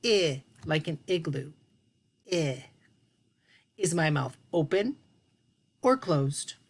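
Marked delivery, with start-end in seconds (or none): 0.0-1.5 I in I said clearly and long; vowel demo. Shown as a demonstration. 2.3-2.6 I held alone with open mouth; isolated vowel. Shown as a demonstration. Teacher to children, showing the lone I vowel.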